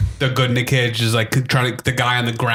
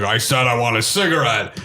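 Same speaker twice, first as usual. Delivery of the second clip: lower, lightly acted insistence; insistent repeat; 4 semitones lower than usual. Retelling Cage pressing the refusing guard, mildly insistent.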